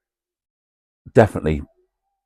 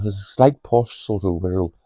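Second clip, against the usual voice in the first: posh Wirral accent; 3 dB quieter than usual. Shown as a demonstration. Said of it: "a sort of posh sort of Wirral".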